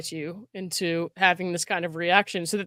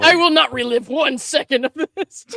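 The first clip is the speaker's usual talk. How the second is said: higher, louder mock mom voice; imitating mom; 5 semitones higher, 6 dB louder than usual. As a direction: play her fed-up mom on a road trip. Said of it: "Sounds like my mom".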